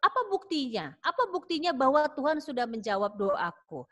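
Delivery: confused disbelief. Acted. Hezekiah asking Isaiah for proof, mildly puzzled. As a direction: sound unsure it can really be true. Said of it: "Hizkia bingung".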